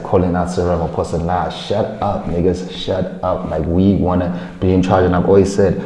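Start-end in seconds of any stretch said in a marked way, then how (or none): 1.2-3.5 slow, soft, fed-up dismissal; dismissive. Real, not acted. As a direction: brush it off slowly. Dismissing the genocide claims.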